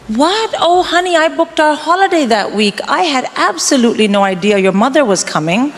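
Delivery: high-pitched mock surprise at a spouse; feigned innocence. Wife lying to her spouse about the holiday, feigned innocent surprise. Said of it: "make sure you lie to your spouse".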